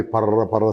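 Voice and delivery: put-on rough rustle of an old plastic bag; old bag crackling, imitated by mouth; imitated bag crackle. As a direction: mimic a crackling bag with rolled r's. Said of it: "sound వస్తుంటుంది".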